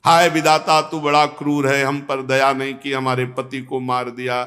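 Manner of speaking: low, monotone mock lament; lamenting queens. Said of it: "हाथ रखकर क्रंदन कर रहे थे". (दबे, नीचे सुर में विलाप की नकल)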